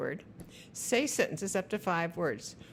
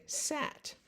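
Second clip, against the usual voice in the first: Sat breathed high and soft; soft whisper; 8 semitones higher, 5 dB quieter than usual. Shown as a demonstration. Parent prompting a child with a whispered word. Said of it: "So you say".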